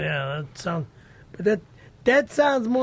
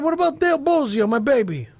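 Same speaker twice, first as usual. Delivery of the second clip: attempted Boston accent; 5 semitones higher than usual. Shown as a demonstration. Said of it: "That's terrible".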